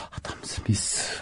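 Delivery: voiceless, drawn-out retold murmur; imitated hushed, slow reply; dismissive mutter. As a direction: mimic someone slowly breathing out a name, barely audible. Acts out head-shaking dismissive reaction.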